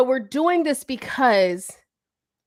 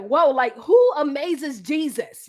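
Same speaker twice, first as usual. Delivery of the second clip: astonished; 3 semitones higher, slower than usual. Retold or imitated. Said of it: "where Jesus was like".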